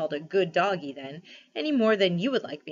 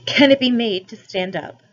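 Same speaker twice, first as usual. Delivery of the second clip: louder, pondering she-elephant; thoughtful elephant; 4 semitones higher, 11 dB louder than usual. A narrator's reading. She-elephant wondering about the fainted man, thoughtful. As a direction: wonder aloud, considering. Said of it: "said the elephant thoughtfully".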